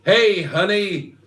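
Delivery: put-on drawn-out, high American-accented call; American accent shout. Lover shouts down from upstairs in an American accent. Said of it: "she'd shout down in an American accent".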